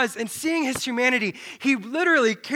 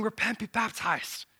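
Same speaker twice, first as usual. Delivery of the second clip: prophet's call; 5 dB quieter than usual. Acted. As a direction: call it from far off, softly.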